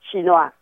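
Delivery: Chinois repeated in French, shee-nwa; Chinois, a crisp French shee-nwa; French pronunciation. Shown as a demonstration. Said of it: "Đó".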